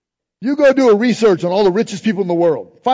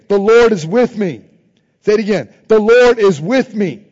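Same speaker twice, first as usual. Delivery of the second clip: louder each time, leading the crowd; loud declaration; 2 semitones higher, 7 dB louder than usual. Shown as a demonstration. Preacher leading congregation in chant, loud declaration. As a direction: call it out for all to repeat.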